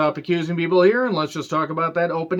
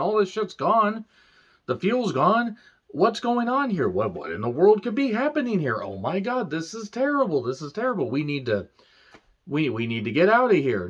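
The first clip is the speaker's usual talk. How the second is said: mock panic; 5 semitones higher than usual. Mock panicked crew voices.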